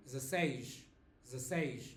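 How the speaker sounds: put-on dezesseis clipped to zeh-SESH in a European Portuguese accent; imitating European Portuguese. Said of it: "you may hear Portuguese saying".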